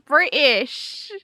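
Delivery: playful put-on British accent; mock British accent. Shown as a demonstration. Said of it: "I'm super British here".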